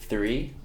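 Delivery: "Three" repeated, TH held and clear; TH sound. Shown as a demonstration. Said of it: "com esse sonzinho de T H".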